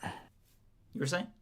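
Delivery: sultry voice. Acted. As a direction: drawl it out slowly and seductively. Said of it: "bad attempt at a sultry voice".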